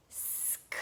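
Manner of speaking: "Scribe" one sound at a time, s and k voiceless. Shown as a demonstration. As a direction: stretch and separate each sound of "Scribe". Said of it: "Sound it with me".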